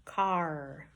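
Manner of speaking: car with a tight, held R; "Car" low, R drawn out and fully sounded; tense final R. Shown as a demonstration. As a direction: keep tension in the R ending "Car". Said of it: "giving it enough tension".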